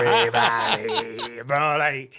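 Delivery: slow laughing emphasis. Real, not acted. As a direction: laugh out everybody.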